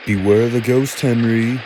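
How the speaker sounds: mock-spooky taunt, rising; teasing. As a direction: taunt in a sing-song spooky tone. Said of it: "teased Gordon".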